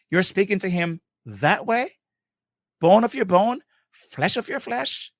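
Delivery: disbelieving questions, endings swung upward; incredulous rebuke. Real, not acted. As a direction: take the listener to task in disbelief. Incredulous rebuke of how spouses speak.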